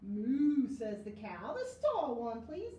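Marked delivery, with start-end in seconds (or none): 0.0-0.7 loud mooing cow. Pretend. Cow sound in story. 1.5-2.7 cow asking. Acted. Cow asks for tree.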